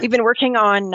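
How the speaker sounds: raspy but pushed harder; pushing through hoarseness. Real, not acted. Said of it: "sorry, I'm losing my voice".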